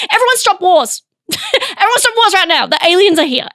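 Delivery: rally everyone before guests arrive; mock panic. Host warning the world of alien guests, mock-frantic.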